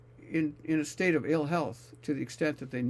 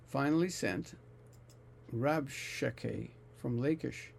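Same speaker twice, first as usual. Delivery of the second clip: scripture reading. Acted. Reads scripture passage aloud.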